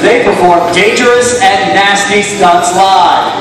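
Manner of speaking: booming hype announcer; rally speech. Acted. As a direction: pump up the crowd, shouting. Game show host hypes crowd.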